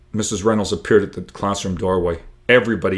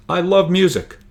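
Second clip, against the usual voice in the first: excited; 10 semitones higher, 6 dB louder than usual. Acted. Isaac defends himself, joking.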